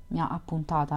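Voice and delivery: steady literary read-aloud voice; story narration. A narrator's reading. Podcaster reading White Nights to listeners, story narration. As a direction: narrate the novel evenly, voicing the lovers lightly.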